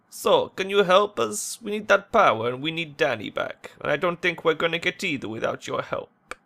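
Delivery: earnest plea, starting high; pleading shop worker. Acted. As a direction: appeal to a stranger for help.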